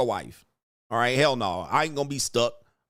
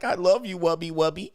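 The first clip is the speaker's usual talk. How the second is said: higher-pitched sugary pet-name cooing, put on; mock lovey-dovey woman; 6 semitones higher than usual. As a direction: imitate a woman sweet-talking her man. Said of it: "She's like".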